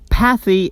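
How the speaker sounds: PAthy with a high, stressed PATH; stressed suffix. Shown as a demonstration. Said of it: "if we stress".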